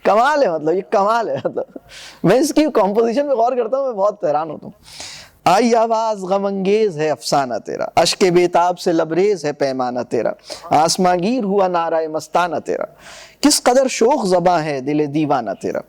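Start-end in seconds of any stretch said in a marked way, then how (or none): 5.5-15.8 lower, measured verse reading; reading Iqbal's poem aloud to the class; poem recitation. Acted. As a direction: recite the couplets with weight. Recites full stanza.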